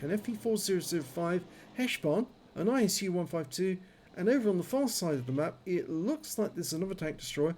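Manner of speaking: talking with a numb jaw; toothache, half the jaw numb. Real, not acted. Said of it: "If you're wondering about my voice at the moment ... Half of my jaw is numb".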